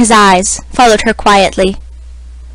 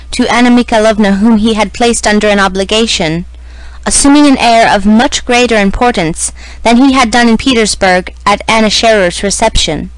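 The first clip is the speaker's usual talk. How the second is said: ordinary delivery, nothing marked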